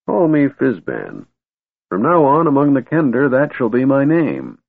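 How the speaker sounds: put-on a kindly old wizard naming himself.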